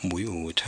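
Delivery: بيوت with a rounded bu on the first sound; ba with damma. Shown as a demonstration. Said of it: "لا بد من ضم الباء".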